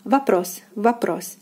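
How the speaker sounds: вопрос as "va-PROS"; careful falling model вопрос; unstressed O as A. Shown as a demonstration. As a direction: say вопрос with first о as "a", second full. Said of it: "the first O is unstressed and is pronounced as A".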